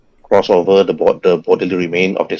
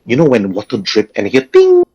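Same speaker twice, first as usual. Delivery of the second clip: plain. Shown as a demonstration. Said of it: "and ting".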